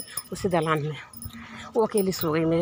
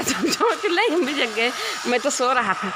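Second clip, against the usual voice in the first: defensive denial; 5 semitones higher than usual. Retold or imitated. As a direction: insist you were just asleep. Brother-in-law denies again.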